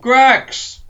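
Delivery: excited shout of a name; cheering. Real, not acted. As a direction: whoop it out like a fan.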